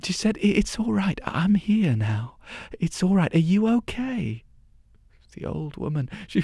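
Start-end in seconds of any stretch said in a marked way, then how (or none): 0.4-4.4 put-on higher, worried young girl; anxious girl. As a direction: reassure her, anxious and kind. Girl comforting the old woman.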